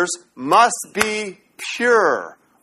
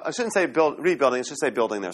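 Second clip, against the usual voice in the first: quiet self-correction; 5 semitones lower, 6 dB quieter, faster than usual. Real, not acted.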